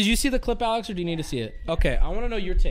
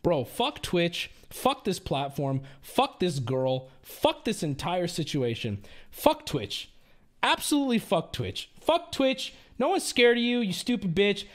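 bitter anger. Real, not acted. Ranting at Twitch after clip.

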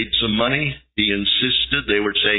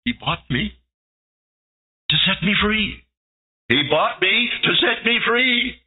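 rising higher through tears; overwhelmed, climbing higher; sobbing joy; 10 semitones higher than usual. Acted. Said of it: "started to sob".

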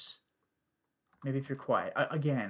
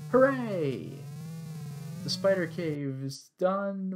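excited cheer; 3 semitones higher, much slower than usual. Real, not acted. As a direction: whoop it out in triumph. Spider cave done.

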